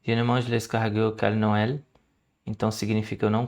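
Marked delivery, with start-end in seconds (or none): 0.0-1.8 slow French. Shown as a demonstration. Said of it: "pra reforçar isso aqui, ó".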